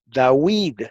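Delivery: "David" said as Dawid, with a w sound; a teacher showing how the king's name was said in ancient Hebrew; old Hebrew pronunciation. Shown as a demonstration. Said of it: "David es como se decía en hebreo antiguo".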